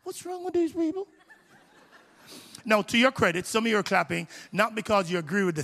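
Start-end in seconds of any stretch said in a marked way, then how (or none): 0.0-1.1 exasperated aside. Retold or imitated. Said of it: "I'm like".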